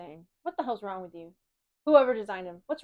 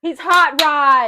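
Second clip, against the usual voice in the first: loud, high, drawn-out protest; indignant shout; 5 semitones higher, 10 dB louder, much slower than usual. Real, not acted. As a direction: shout it as if obvious. Indignant about character design.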